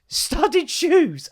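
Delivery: high-pitched, laughing disbelief; incredulous. Acted. Dad repeats son's odd word, incredulous. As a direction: echo it as if it's absurd. Incredulous echo of wrong term.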